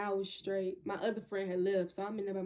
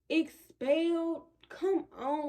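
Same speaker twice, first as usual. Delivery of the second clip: 1 shocked disbelief; 8 semitones higher, 5 dB louder, much slower than usual. Retold or imitated. Shocked at being expelled.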